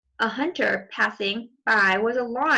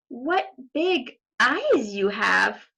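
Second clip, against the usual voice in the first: slow, marvelling question; slow amazed little girl; wide-eyed wonder; slower than usual. Acted. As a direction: marvel at what you see.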